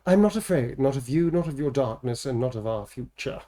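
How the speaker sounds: earnest, measured defiance; a hint of a resolute hero; heroic vow. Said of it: "this is for Siobhan".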